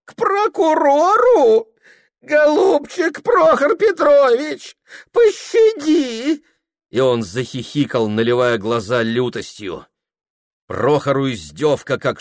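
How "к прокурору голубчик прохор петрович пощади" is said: high, slow fake whimper; father fakes fear to mock his son; mock pleading. A narrator's reading. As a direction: beg in jest, sneering. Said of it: "маска на его лице — испуг с мольбой".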